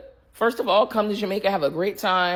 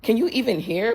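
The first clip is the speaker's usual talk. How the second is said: exasperated disbelief; 6 semitones higher than usual. Retold or imitated. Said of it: "I'm like".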